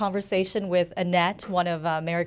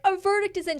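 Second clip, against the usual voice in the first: excited announcement; 10 semitones higher than usual. Retold or imitated. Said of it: "And I'm like".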